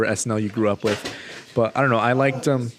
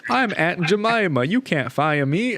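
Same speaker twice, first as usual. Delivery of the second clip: mock protest; 6 semitones higher, slower than usual. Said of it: "she's like".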